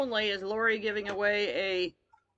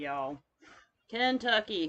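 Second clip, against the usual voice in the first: Kentucky with a broad southern Kentucky accent, first vowel like "can"; muddy Kentucky accent. Shown as a demonstration. Showing viewers her muddy Kentucky accent. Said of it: "hence the muddy southern accent".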